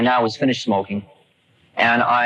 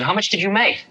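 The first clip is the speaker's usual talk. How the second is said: put-on old guru voice; 9 semitones higher than usual. Old man quoted asking.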